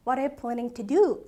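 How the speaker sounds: slow, spelled-out question to the end; slow full question. Shown as a demonstration. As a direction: read it slowly to the very end. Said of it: "한 요 정도까지는 들읍시다". (끝까지 천천히 또박또박)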